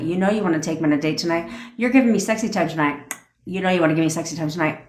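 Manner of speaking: easy, certain demands, quick; confident command. Shown as a demonstration. Coach demoing demands to a partner, self-assured. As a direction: list them like they're already done. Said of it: "You can say one of".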